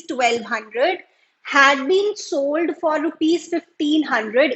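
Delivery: reading the exam question aloud, very slow and deliberate; slow, careful dictation of a textbook problem. Acted. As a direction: dictate the question word by word to the class. Teacher reads the exam question aloud.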